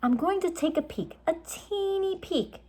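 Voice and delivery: high, coaxing little voice; girl sweet-talking her brother. A narrator's reading. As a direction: coax him sweetly. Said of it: "she said".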